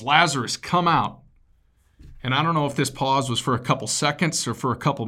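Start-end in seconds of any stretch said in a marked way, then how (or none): 0.0-1.2 a raised, higher call; yell. Retold or imitated. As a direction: call the dead man out of the tomb. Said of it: "he yells".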